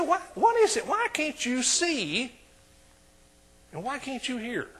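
exasperated Jesus. Retold or imitated. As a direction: plead with the disciples who just don't get it. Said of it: "And he said".

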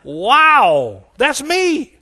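high, loud, acted astonishment; getting excited. Reader claiming wealth for his house, loud excitement. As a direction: exclaim it like a thrilled discovery. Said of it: "Excuse me for getting excited".

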